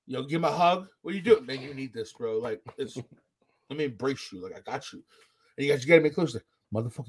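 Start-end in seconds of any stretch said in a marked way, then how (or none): 1.5-5.0 mock tender embrace. Voicing hugging ride operator.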